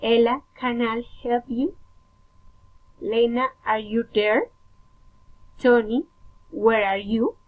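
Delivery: name set apart, question rising on "you" and "there"; careful teacher's model of addressing someone; rising direct address. Shown as a demonstration. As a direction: call the name, then lift the end of the question. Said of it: "rising intonation".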